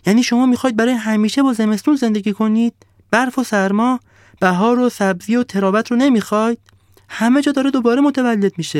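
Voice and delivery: high, loud, upset pleading; heated sun. Acted. The upset sun pleading with the frozen villagers, high and loud. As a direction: plead with rising heat. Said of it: "با حرارت بیشتری گفت".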